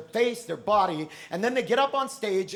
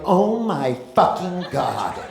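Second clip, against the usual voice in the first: judge gasp; 4 semitones lower, slower than usual. Acted. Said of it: "the judges will be like".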